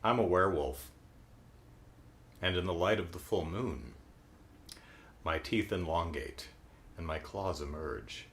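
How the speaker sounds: mock-sinister werewolf tale to scare a kid; spooky storytelling. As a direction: creep it down to a threat. Rapture scaring a child.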